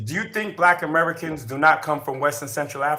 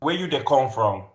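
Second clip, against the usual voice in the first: lightly put-on Nigerian Pidgin, a touch lower; Nigerian accent; 4 semitones lower, 4 dB quieter than usual. Teasing the guest about his roots, in a light Nigerian accent. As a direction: tease the guest in a mock Nigerian lilt. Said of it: "That's my Nigerian accent".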